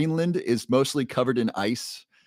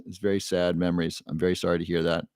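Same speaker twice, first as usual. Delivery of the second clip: lower, subdued condolence; gently sorry, pitch dropped; sympathetic; 5 semitones lower than usual. Real, not acted. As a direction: offer sincere sympathy in a lowered voice. Condolence to a bereaved viewer.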